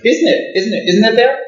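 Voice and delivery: put-on high, loud, insistent old teacher; an old abbot pressing the Dalai Lama, high and loud; fierce old abbot. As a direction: jab each "isn't it" at him like a fierce old master. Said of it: "hot-headed, hot-tempered Mongolian".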